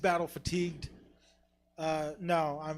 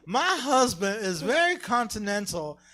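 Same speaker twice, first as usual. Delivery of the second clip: put-on Irish accent; 4 semitones higher, 6 dB louder, slower than usual. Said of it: "go straight into character".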